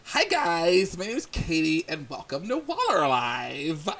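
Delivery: swooping vlog-intro greeting in a put-on voice; Katie. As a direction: greet viewers in a put-on sister voice. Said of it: "listen to what I'm about to do".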